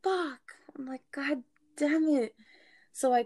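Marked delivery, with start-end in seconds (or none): 0.0-0.4 high whispered swear; retold hushed curse. Retold curse on finding truck locked. 1.1-2.3 slow, whispered cursing; retold hushed curse. Retold curse on finding truck locked.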